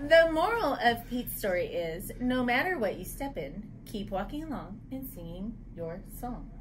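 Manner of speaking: animated moral, settling at the end; story reading. Acted. Reader telling children the moral of Pete's story, animated story reading. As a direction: deliver the lesson to young listeners. Reads picture book aloud.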